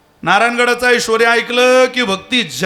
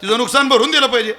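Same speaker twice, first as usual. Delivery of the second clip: scolding judge; 4 semitones higher, faster than usual. Retold or imitated. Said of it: "judge scolding the cyclist".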